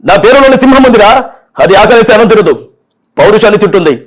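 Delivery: fast, fierce mass-hero threat; Balakrishna punch dialogue. Retold or imitated. Balakrishna hurls a fast movie threat at a villain. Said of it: "ఇంకో dialogue కూడా చెప్తా".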